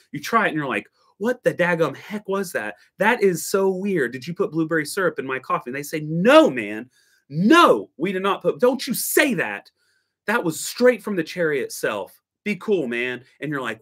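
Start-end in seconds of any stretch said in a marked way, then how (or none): 1.2-5.7 higher, stunned at the weird coffee; shocked disbelief. Retold or imitated. Shocked coffee newbie asking the barista about syrup, mock disbelief. 6.0-13.2 higher, louder mock indignation; indignant protest. Barista defending his natural Ethiopia to the customer, hammed-up indignation.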